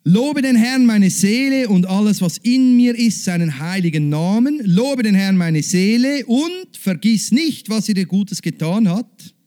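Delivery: full-voiced scripture proclamation; proclaimed psalm. Shown as a demonstration. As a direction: declaim it as worship. Psalm proclaimed aloud to congregation.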